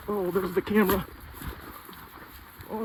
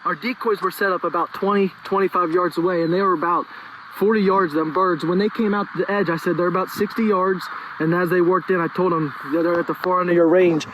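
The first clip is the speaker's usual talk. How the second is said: loud; 8 dB louder than usual. Real, not acted. Loud excited recounting.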